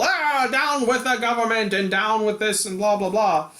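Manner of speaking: lightly voiced rally ranter; a hint of demagogue, trailing into blahs; mock rabble-rouser. Voices rally leader's rant.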